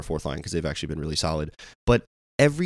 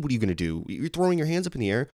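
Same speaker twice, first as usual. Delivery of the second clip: exasperated rant; 8 semitones higher than usual. Retold or imitated. Fan berating player's shrug.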